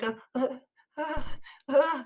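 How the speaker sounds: put-on small, soft baby whimpers; short grunts of a baby starting to fuss; imitated baby fussing. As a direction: imitate a baby warming up to cry. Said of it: "it starts off normal".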